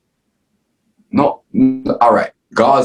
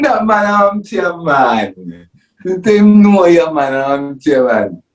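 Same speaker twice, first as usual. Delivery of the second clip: high-pitched imitation of a friend, gradually dropping; mock emphatic reply; 9 semitones higher, slower than usual. Interviewee mimicking his friend's answer about being known, high mock voice. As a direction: start way up high, sliding down.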